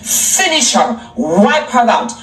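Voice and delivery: slow, drawn-out game announcer call; mock fight command. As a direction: finish her like a fighting game. Video game style command.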